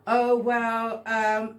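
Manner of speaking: imitated evasive hesitation; mock stalling. Woman mimics the man dodging who he's going home to, mock stalling. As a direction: drag out the pause as if caught out. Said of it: "You pause and skin your teeth".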